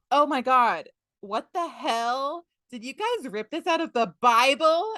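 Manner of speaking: high, drawn-out scandalized disbelief; hammed-up horrified scolding; mock outrage. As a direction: act appalled at what they did. Silver acted as scandalized at pirates.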